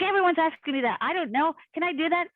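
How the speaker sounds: a touch of exasperated wonder; baffled protest. Retold or imitated.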